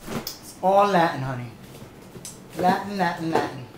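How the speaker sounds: hammed-up Latin pride; proud diva. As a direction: sell it with pride. Diva proudly touting her drink.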